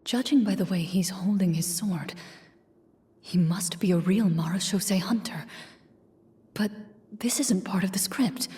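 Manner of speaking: soft hushed whisper; whispered aside. Acted. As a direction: whisper it like a secret.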